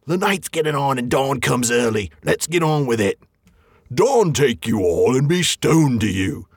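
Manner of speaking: lightly voiced troll, slowing down; a hint of a gruff troll. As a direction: play the trolls bickering toward dawn. Troll voices near dawn.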